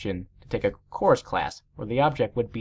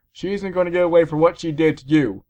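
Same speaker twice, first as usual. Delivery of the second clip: outraged father; 5 semitones higher, 6 dB louder than usual. A narrator's reading. Outraged dad storms out.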